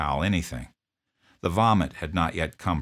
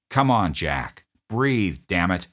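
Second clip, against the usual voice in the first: urgent pleading; 2 semitones higher, 4 dB louder, slower than usual. Retold or imitated. Urging a dying man.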